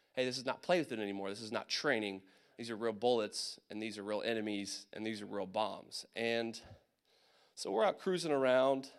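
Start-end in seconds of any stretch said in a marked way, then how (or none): 0.1-6.1 low, sober warning; real serious. Retold or imitated. Trainers warning soldiers in Iraq, deadly serious. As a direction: imitate a grave instructor, pitched down. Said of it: "it got real serious".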